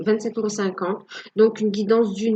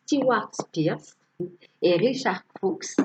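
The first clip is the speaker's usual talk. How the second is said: slow, careful English names in a heavy French accent; slower than usual. Real, not acted. Telling viewers which oracle authors she used, English names in a heavy French accent. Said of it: "je rigole toujours de, de mon superbe accent".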